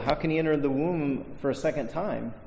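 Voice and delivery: honest puzzled question, softly; genuinely wondering how it could work; baffled. Retold or imitated. Preacher voicing Nicodemus sincerely baffled, mild softness. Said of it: "he's baffled".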